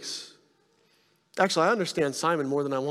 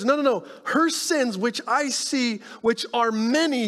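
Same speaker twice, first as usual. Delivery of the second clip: Jesus insisting; 6 semitones higher than usual. Retold or imitated. Jesus correcting Simon about her sins, high and insistent. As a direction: firmly overrule the doubt. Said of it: "Jesus says".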